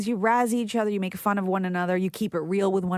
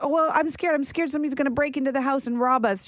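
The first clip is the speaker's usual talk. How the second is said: put-on scared little kid; 5 semitones higher than usual. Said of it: "I'm like".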